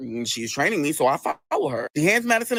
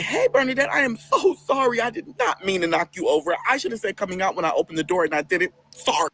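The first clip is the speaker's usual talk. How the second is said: acted apology. Acted apology to knocked-over coworker.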